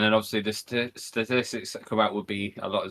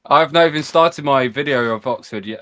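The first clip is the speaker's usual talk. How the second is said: louder repeat for someone who missed it; 3 semitones higher, 6 dB louder than usual. Real, not acted. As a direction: say it again, raised so it gets heard. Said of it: "Say that again".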